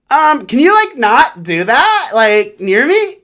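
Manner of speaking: high, slow, whiny put-upon voice; mocking a prissy girl. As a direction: drag out the complaint in a high whine. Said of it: "she's like".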